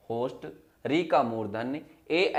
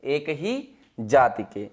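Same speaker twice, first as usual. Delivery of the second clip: एक ही जाति के said slowly and deliberately; slow it down and stress ही so it sinks in; slow emphatic teacher repeat; 2 semitones lower, much slower than usual. Shown as a demonstration. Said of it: "सजाति का मतलब होता है".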